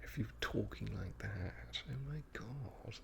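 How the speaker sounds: high, breathy mock-posh royal; feminine posh voice. Impressionist mocking his own royal voice, feminine and high. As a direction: pitch it up into a feminine posh whine. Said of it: "sounds a little bit feminine".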